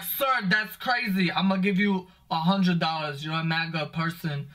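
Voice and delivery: lightly voiced fake-earnest prankster; prank kid voice. Comic mocking a prank video kid, mild hammed-up earnestness. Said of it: "the kid's like".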